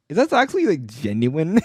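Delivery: lightly acted disbelief; mock surprise. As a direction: imitate a viewer caught off guard. Acted viewer reaction to unexpected sincerity.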